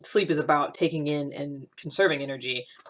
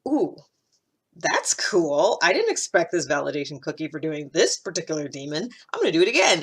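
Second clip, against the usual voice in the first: pleasantly surprised; 3 dB louder than usual. Acted. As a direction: act out being pleased with yourself. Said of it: "and we're like".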